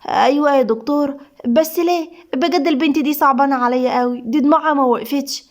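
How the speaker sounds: mildly anxious, pitying protest; very worried. Acted. Nurse pitying the patient before her boss, mildly anxious. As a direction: object timidly with some worry. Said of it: "صباح بقلق بالغ".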